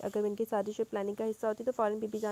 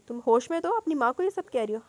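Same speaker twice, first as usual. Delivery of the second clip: a louder angry rebuke from a mother; 3 semitones higher, 6 dB louder than usual. Acted. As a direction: scold the daughter sharply and loud. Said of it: "زوہا غصے سے بولی". (غصے سے بلند ڈانٹ)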